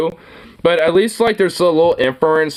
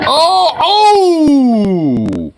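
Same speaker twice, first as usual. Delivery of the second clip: loud, high startled oh; surprised shout; 10 semitones higher, 6 dB louder than usual. Real, not acted. Watching the man get knocked out, a loud startled yelp.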